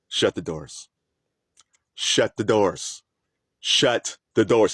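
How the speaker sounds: slow, serious repeated order; mild serious imitation of the pastor; stern command. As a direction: mimic a grave pastor ordering the doors shut. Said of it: "And he was very serious".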